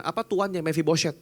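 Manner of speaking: normal talking voice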